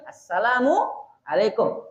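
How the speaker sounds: Assalamualaikum said slowly in one unbroken breath; slow connected demo. Shown as a demonstration. Teacher shows joined greeting, slow and unbroken. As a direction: join Assalamualaikum smoothly, no gap. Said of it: "Jadi menyambung dua kalimat tadi".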